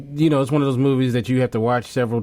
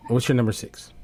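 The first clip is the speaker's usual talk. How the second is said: muffled voice, as if through a hand; faster than usual. Real, not acted. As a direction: speak with a hand over your mouth. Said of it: "you got all muffled".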